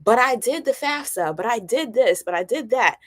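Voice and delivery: mock indignant, insistent repetition; imitated annoyed complaint. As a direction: mimic a put-out parent listing each effort. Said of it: "middle income families that be annoyed".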